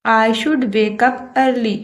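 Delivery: slow, word-by-word example sentence; slow dictation. Shown as a demonstration. Teacher reading an example to Hindi-speaking students, slow and deliberate. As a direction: read it out slowly for learners to copy. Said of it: "teacher reads English example".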